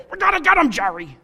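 George Costanza. Retold or imitated. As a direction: squeal it like George Costanza to Jerry. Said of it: "George Costanza".

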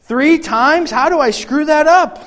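high, loud, rising disbelief; hammed-up exasperated questioning; mock self-reproach. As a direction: build to an incredulous outburst at your own blunder. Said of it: "I would feel like a dummy".

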